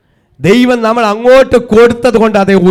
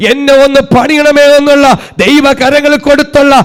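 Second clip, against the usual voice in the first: forceful, sustained pulpit delivery; impassioned sermon swelling to stretched-out peaks; full-force preaching. Real, not acted. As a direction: drive each phrase home to the congregation.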